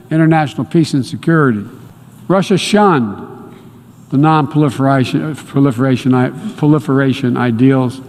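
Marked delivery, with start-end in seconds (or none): 4.1-8.0 teleprompter stumble. Real, not acted. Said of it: "Easy for you to say".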